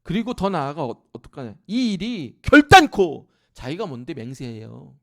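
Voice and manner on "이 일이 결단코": very loud, slow, emphatic vow; forceful vow. Acted. Preacher acting Peter's oath, very loud and slow. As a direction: swear it with full force.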